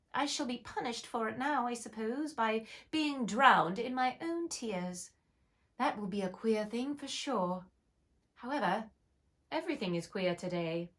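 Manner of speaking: a hint of young Alice, sorry for herself. Alice speaks in pool.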